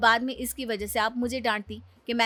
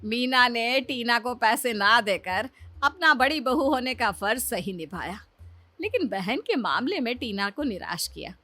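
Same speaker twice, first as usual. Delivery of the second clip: story narration. A narrator's reading. Narrator letting viewers in on the test, storyteller. Narrator describes mother-in-law.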